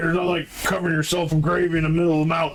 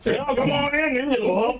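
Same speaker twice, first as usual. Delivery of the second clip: put-on old worm voice; 7 semitones higher than usual.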